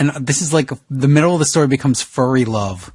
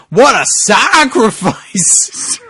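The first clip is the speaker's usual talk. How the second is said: slow dramatic; 5 semitones higher, much slower than usual. Acted. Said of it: "said John Cena".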